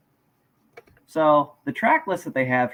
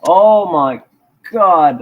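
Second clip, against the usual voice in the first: startled; 10 dB louder, much slower than usual. Real, not acted. Loud music suddenly starts playing.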